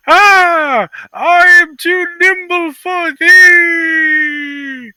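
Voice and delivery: high, slow archaic boast; loud, slow hammy taunt; boastful swordsman. Acted. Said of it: "And he blocks Ragnar's axe".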